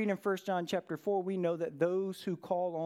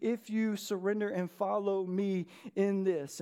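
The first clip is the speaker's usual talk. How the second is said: Holy Spirit's voice; 4 semitones higher than usual. Acted. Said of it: "the Holy Spirit convicts us of righteousness".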